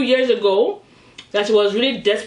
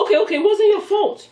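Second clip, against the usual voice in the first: laughing; 10 semitones higher, faster than usual. Retold or imitated. Husband caves, teller laughing.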